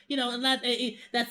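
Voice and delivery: ordinary talk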